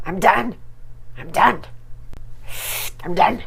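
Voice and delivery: a light imitation of Lisa's whiny I'm done; baby girl Lisa. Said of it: "say it like Lisa, like baby girl Lisa".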